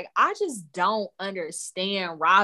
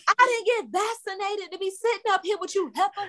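mocking Karen impression; 10 semitones higher than usual.

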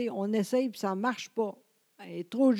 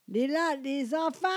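put-on calling the kids; 4 semitones higher than usual. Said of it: "moi, je suis rough".

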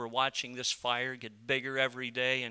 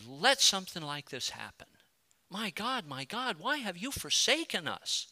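anguished plea; 6 semitones higher than usual. Acted. Pastor questioning God after a friend's death, anguished plea. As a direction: lift the voice into a wounded question.

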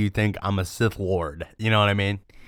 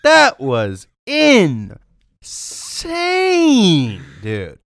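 frat bro; 8 semitones higher, 7 dB louder, much slower than usual. Real, not acted. Hyped reaction to joke.

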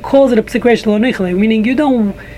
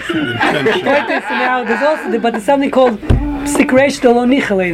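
laughing; 3 semitones higher than usual. Real, not acted. Laughing while resuming the lesson.

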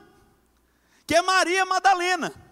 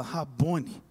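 quiet recognition; 13 semitones lower, 7 dB quieter than usual. Acted. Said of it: "ela vira e fala".

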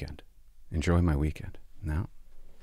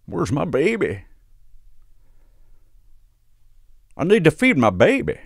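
put-on drunk mom wail; 7 semitones higher, 4 dB louder than usual. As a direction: wail like a sloppy drunk mother. Drunk mom voiced again.

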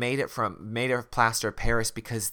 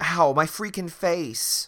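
mock pain; 7 semitones higher, 3 dB louder, slower than usual. Voicing Justin's pain.

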